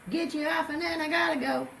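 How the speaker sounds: sing-song it like a cheeky lover; sassy seductress. Retold or imitated. Sun voiced seductively by teller.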